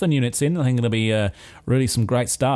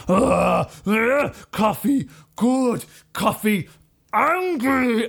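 slow, higher grunting brute voice; hulked-out brutes; 8 semitones higher, much slower than usual. Acted. Inspectors swelling after the drugged coffee, slow brute grunts. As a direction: grunt each word as muscles swell. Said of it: "it's like".

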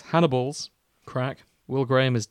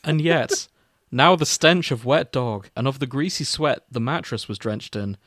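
mock-solemn fanfic reading, mostly at usual pitch; story narration; 3 dB louder than usual. Podcast host reading a crack fic to cohosts, mock-solemn narration. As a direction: read the opening like a grave eulogy, tongue in cheek.

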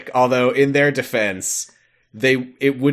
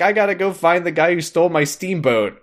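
determined Pete; 8 semitones higher, 4 dB louder than usual. Retold or imitated. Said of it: "he's like".

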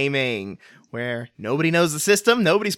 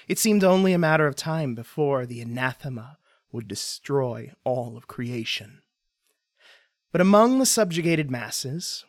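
story narration. Acted. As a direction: set the scene like an epic tale. Game master's scene setting.

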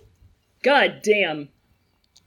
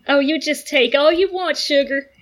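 put-on Southern accent; 4 semitones higher than usual. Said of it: "it being a Southern accent".

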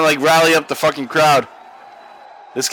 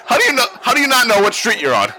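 incredulous Costanza; 7 semitones higher, faster than usual. Retold or imitated. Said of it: "And then he's like".

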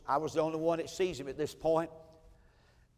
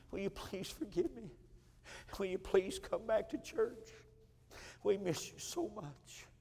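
tearful apology. Retold or imitated.

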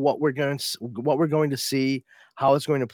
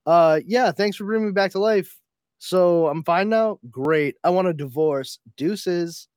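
higher-pitched, breezily sarcastic brush-off; mock dismissive; 6 semitones higher, 4 dB louder than usual. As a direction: act out a curt, ungrateful goodbye in a raised voice. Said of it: "if she actually were to come back to life in the comics, like".

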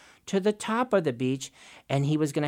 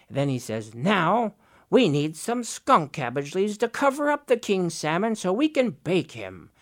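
bossy Raven; 3 semitones higher than usual. Acted. Raven gives orders.

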